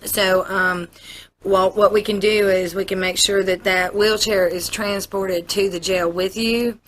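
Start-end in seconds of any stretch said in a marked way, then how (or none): none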